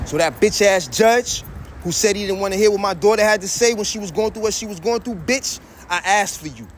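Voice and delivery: rising fury at the judge; loud anger. Real, not acted. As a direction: spit it at the judge. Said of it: "I'm loud, Salakia".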